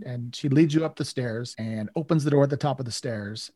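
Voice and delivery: normal talking voice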